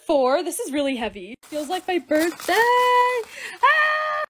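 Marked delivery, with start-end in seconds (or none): 2.5-4.2 excited squeal. Real, not acted. Unboxing a surprise gift.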